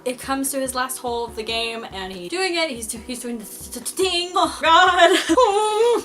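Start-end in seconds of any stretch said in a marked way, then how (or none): 3.8-6.0 laughing. Real, not acted. Stuttering, laughing at herself.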